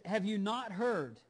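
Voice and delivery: loud and slow; booming challenge. Acted. God confronting the Assyrian king in a booming voice.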